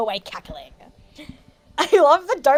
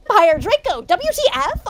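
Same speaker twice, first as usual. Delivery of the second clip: incredulous question; 6 semitones higher, 4 dB louder than usual. Acted. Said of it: "I asked".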